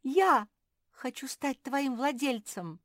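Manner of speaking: high, eager clamour; yelling. A narrator's reading. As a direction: beg loudly to be chosen. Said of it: "завопила Куки".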